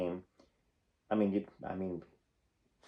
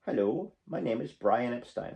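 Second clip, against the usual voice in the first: lightly attempted English accent. Introducing himself as the Beatles' manager, clumsy English accent. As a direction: have an amateur go at an English accent. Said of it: "I have no idea how to do an English accent".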